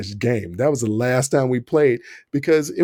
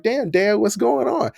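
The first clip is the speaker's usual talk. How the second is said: a little higher, mildly raised protest; lightly hammed-up surprised yell; mock startled yell; 8 semitones higher than usual. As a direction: retell the shocked yell lightly. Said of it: "I was like".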